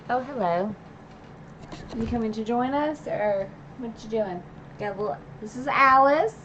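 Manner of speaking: a little pet-talk voice to Alice. Real, not acted. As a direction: greet the pet walking in. Greets her pet coming in.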